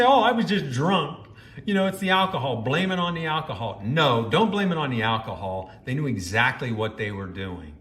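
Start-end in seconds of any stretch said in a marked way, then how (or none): 0.0-3.8 higher-pitched mocking whine of excuses; imitating someone making excuses. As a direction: mimic a lame excuse, pitched up. Mimicking women's excuses for cheating.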